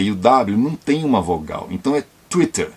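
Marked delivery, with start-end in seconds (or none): 2.3-2.7 Twitter with tw together, no vowel between; English Twitter. Shown as a demonstration. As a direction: say Twitter with a tight tw. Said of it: "twi, não tui".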